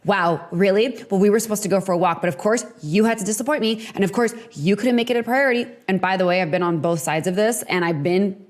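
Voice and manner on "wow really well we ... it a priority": fast, snippy mock guilt trip; hammed-up passive-aggressive dig at a partner. Shown as a demonstration. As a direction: rattle off the complaint with sarcasm. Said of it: "when you're passive aggressive and you're intense".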